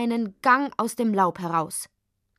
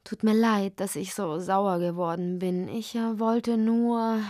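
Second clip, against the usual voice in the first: sheepish apology. Acted. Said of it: "empfing ihn kleinlaut".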